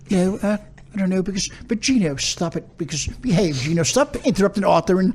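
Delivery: scolding in a shaky-grasp English accent. Shown as a demonstration. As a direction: tell them off in fake British. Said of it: "do your English accent".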